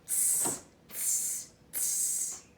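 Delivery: soft unvoiced tsk tsk tsk; cheeky monkeys tsking back. Monkeys mocking the peddler, soft cheeky tsking. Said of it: "and said".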